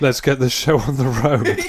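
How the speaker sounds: amused mock quote. Mocking the retold phone call.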